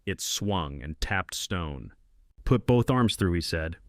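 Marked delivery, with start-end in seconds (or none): 2.4-3.3 raised, higher voice calling down into the dark; calling down a well. A narrator's reading. Man calling down the old well to the stuck girl, raised call. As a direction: call it down the well so she hears.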